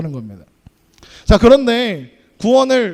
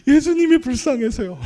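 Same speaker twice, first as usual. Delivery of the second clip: put-on higher, childlike reply; child's tearful answer; 5 semitones higher than usual. Pastor recalls his childhood answer to the teacher, in a small child's voice. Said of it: "선생님이 그러셨어요".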